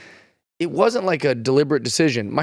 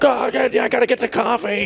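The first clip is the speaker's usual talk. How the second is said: higher, hammed-up breezy; mock casual; 10 semitones higher than usual. Mocking himself playing it cool after the crash. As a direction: act falsely casual. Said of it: "And I'm like".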